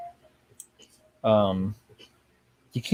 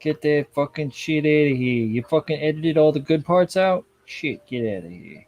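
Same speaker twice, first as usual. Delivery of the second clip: shouting at trespasser; 2 semitones higher than usual. Pretend. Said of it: "such a fucking old man sometimes".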